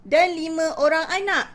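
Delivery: clear, sweeping story delivery; clear expressive storytelling. Shown as a demonstration. Teacher introducing the five children, expressive storytelling. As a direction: tell it to children with full intonation. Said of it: "kuat, jelas dan penuh intonasi".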